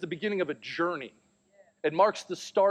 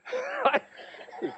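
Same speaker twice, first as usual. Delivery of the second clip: a real laugh that shoots up high; high delighted laugh. Real, not acted. Laughs at son's answer.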